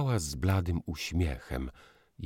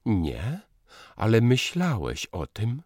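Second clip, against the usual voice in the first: broken voice; 6 semitones higher, 5 dB louder than usual. A narrator's reading. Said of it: "odpowiedziała urywanym głosem".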